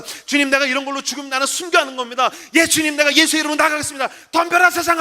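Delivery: gather force with each declaration, finish shouting; prayer building to shout. Retold or imitated. Pastor recovering faith in prayer, rising to defiant shout.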